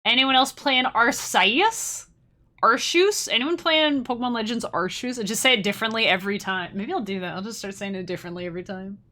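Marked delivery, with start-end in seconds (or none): 0.0-5.2 high, loud, slow hammed-up welcome; mock streamer greeting. Pretend first-day stream greeting to chat, hammed-up and high. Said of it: "I'll be like".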